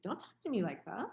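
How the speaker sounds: retelling her own snappish reply; mild irritated retort. Retold or imitated. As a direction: push back, mildly annoyed. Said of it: "I got irritated".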